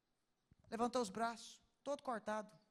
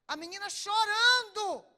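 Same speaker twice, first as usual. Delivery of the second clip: loud, high, slow cry of emphasis; emotional outburst; 9 semitones higher, 12 dB louder, slower than usual. Real, not acted. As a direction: stretch it out in distress. Emotional climax of story.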